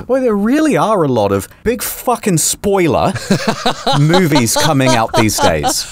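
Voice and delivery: a cheery clerk blurting out too much; imitating the ticket guy. Cinema clerk handing over tickets, mock chatty. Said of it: "and he goes".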